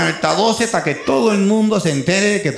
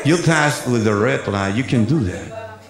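slow, lower stern cop voice; American cop English; 4 semitones lower, slower than usual. Retold or imitated. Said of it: "ahí empieza un inglés raro".

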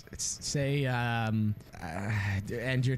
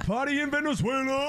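celebrating; 11 semitones higher than usual. Real, not acted. Celebration chant.

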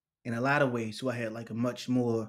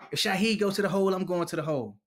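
higher, louder defiant vow; 5 semitones higher, 3 dB louder, faster than usual. Retold or imitated. Inmate defying the guards for Shaheed. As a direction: stand up for your friend. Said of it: "he kicks his lock out".

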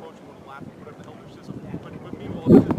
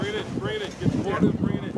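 high, loud call to the team; 14 semitones higher, 9 dB louder than usual. Real, not acted. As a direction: call the players in. Coach calls team in.

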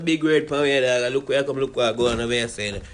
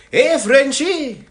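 loud, slow call upstairs; drawn-out shout across the room; 8 semitones higher, 9 dB louder, much slower than usual. Acted. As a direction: holler for the boss. Calls the boss.

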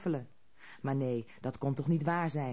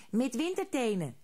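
troll chorus echo; 7 semitones higher than usual. A narrator's reading. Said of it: "zeiden de anderen".

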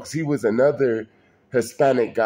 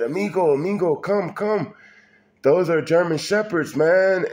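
put-on mild Mexican-accented urging, a bit higher; light Mexican accent; 4 semitones higher than usual. An old Mexican neighbor warns him off the German Shepherds, in a mild Mexican accent. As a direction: call him over with a hint of a Spanish accent. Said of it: "like he was saying it in Spanish and English".

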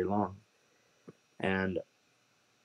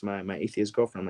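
normal talking voice

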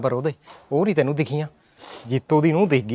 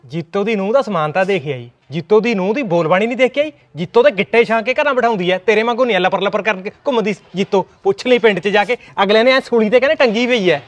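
raised, louder, scolding voice; angry scolding; 4 semitones higher, 3 dB louder than usual. Acted. Husband scolds wife for praising the neighbour's daughter-in-law, loud and angry. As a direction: scold her loudly with rising anger.

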